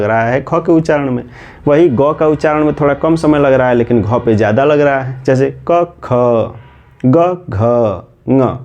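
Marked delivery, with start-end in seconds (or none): 5.7-8.6 क ख ग घ ङ spaced out, aspirated ख and घ with a bit more breath; careful letter recital. Shown as a demonstration. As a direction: spell out क, ख, ग, घ, ङ with pauses, breathing out on ख and घ. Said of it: "ऐसे करके लग रहा है".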